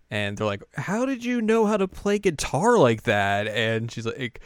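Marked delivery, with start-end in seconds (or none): 0.8-3.5 high-pitched mock astonishment; hammed-up, higher-voiced wonder; amazed question. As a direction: ask it as an impressed anime bandmate. Bandmates' amazed question, retold.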